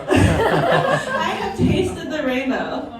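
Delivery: slow, drawn-out line with laughter; laughing, very slow delivery; slow punchline. Retold or imitated. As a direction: stretch every word for the joke. Punchline about her experience.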